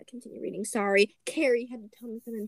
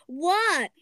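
high, louder shout back to mom; punchy falling yell back; calling back; 5 semitones higher, 7 dB louder than usual. A narrator's reading. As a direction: answer a call from across the way. Froggy answering his mom's call.

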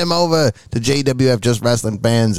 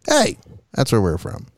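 upbeat sponsor read; chipper 1950s ad; 3 semitones higher than usual. Acted. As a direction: sell it like an old radio ad.

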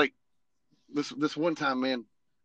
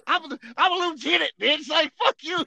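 higher, joking one-upping; mock boast; 12 semitones higher, 5 dB louder than usual. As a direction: brag sarcastically. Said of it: "mock rank boast".

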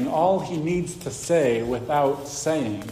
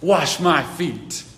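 stubborn refusal; 4 dB louder, slower than usual. Acted. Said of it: "So he says in verse eight".

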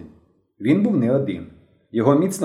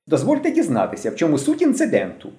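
higher, politely official inquiry; mildly pompous seriousness; serious, formal; 6 semitones higher than usual. A narrator's reading. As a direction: ask with mock-official gravity. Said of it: "не змінюючи своєї серйозної міни".

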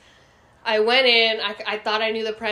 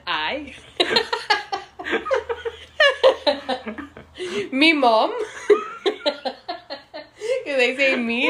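hammed-up Irish brogue, much higher and louder, laughing through it; a laughing try at an Irish accent; mock Irish accent; 7 semitones higher, 4 dB louder, slower than usual. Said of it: "I always end up sounding Irish".

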